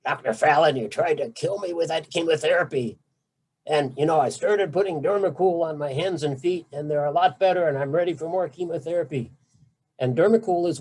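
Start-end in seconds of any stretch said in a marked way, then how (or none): 0.0-9.3 bad Scottish accent. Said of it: "I wish I could do a bad Scottish accent".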